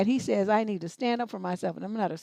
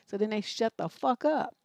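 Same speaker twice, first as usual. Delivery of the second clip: ordinary talk, nothing marked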